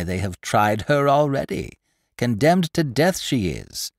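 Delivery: chattering market woman spreading news; gossipy old woman. Acted. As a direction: relish every grisly detail like a village gossip. Old gossip Mistress Pundor speaks.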